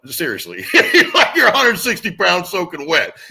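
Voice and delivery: words broken up by laughter, slowing down; laughing dad. Retold or imitated. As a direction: laugh through the line at your son. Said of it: "My dad literally laughed and said".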